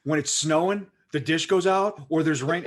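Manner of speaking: retold rant building in volume and pitch. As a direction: start contained, then build into an indignant mock tirade. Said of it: "I just keep getting louder and louder".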